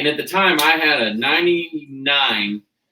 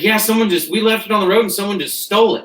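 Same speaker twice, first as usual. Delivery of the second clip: higher, hurried worried call, half-joking; imitating panicked brother; 6 semitones higher, faster than usual. Brother calls in a panic about the stolen truck, mock-frantic. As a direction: mimic a frantic brother on the phone. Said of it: "Justin calls in a panic".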